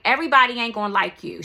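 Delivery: put-on mom's blunt DC accent, fast. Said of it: "that's how we say it in D C".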